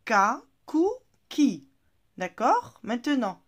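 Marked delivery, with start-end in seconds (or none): 0.0-1.7 loud drill. Shown as a demonstration. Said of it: "lisez-le".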